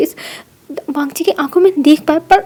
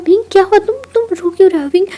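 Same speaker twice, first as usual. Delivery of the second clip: higher, louder concerned asking; worried; 3 semitones higher, 5 dB louder, faster than usual. Acted. Wangji anxiously asking the crying Wing, worried. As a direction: ask anxiously what's wrong.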